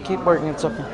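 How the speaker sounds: daughter fading to a hush, understated sniffly sadness; mild tearful daughter. Acted. Daughter pretending not to bother her dad, softly tearful. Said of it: "she starts sniffling".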